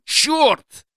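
high terrified woman's cry; panicked woman. A narrator's reading. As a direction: scream it in terror. Wife panics under gunfire.

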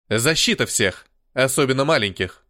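put-on growled in a heavy Slavic accent. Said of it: "славянскому акценту".

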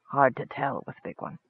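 very soft goblin undertone; low-voiced goblin. A narrator's reading. Goblin nodding at the Minotaur, very low voice. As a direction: drop it right down, confidentially. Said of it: "he said in a very low voice".

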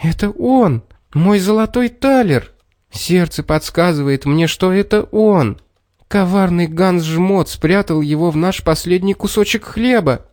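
high, bright joyful cry; joyful exclaim. A narrator's reading. Girl recognising her gold coin, high happy cry. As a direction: burst out with delight at the find. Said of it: "радостно воскликнула".

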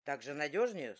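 a big man shrugging off her objection; dismissive skipper. A narrator's reading. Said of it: "снова отмахнулся он".

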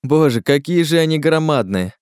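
high-pitched amazement; awed exclamation. Acted. Klazen stares up at the giant pines, amazed.

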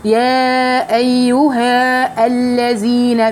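"يا أيها الذين" stretched very slowly with a heavy drop; slow heavy recitation; tajweed demo. Shown as a demonstration. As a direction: chant "أيها" long and slow. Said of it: "تيجي تقولي".

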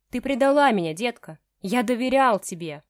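loud, hammed-up angry growl. A narrator's reading. Ignat accusing Maya of betrayal, loud angry growl. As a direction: accuse her with a furious snarl. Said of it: "прорычал мужчина".

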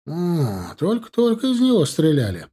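usual speaking voice

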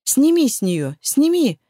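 громко, на втором «сними» голос резко взлетает; кричи, задыхаясь от ужаса; крик в ужасе. A narrator's reading. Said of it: "кричала я в ответ, задыхаясь от ужаса". (мать в ужасе кричит на Дрейга)

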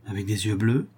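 tentative, rising question; anxious questioning. Acted. Countess checking the child's eyes, anxious question. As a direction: probe with the voice lifting at the end.

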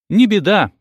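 high, loud, merry cry; cheerful exclamation. A narrator's reading. Nasreddin brushing off his friend, cheerful shout. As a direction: toss it off gaily, no worries. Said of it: "весело воскликнул Насреддин".

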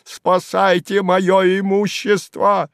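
high, slow, shrill begging; frantic plea. A narrator's reading. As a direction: cry out for the property. Slyotkin pleads for his property.

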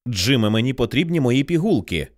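ordinary delivery

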